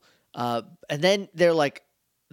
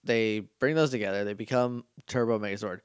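nodding off; 5 semitones lower than usual. Real, not acted. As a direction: talk while falling asleep. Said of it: "I'm falling asleep as I'm talking".

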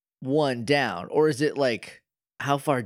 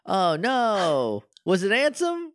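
higher, realizing the worst has come true; dismayed surprise; 6 semitones higher than usual. Real, not acted. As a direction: pitch jumps way up in mock horror. Dreaded villain reappears.

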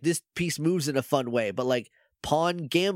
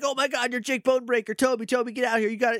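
quick, high, gushing call; acted fan frenzy, fast and high; starstruck excitement; 6 semitones higher, faster than usual. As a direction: call a friend over in a high-pitched rush. Acting fans thrilled by a star.

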